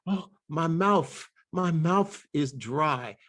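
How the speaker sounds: slow, "mouth" said as "mouf"; Georgia dialect. Retold or imitated. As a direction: draw it out, "mouth" ending on F. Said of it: "instead of mouth".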